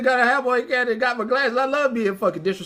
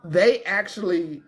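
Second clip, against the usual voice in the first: suspect; 4 semitones lower, slower than usual. Retold or imitated. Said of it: "here's that person".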